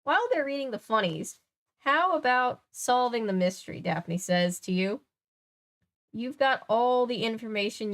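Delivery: animated, lilting storybook read; story narration. A narrator's reading. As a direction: guide listeners through the mystery brightly. Reads story aloud.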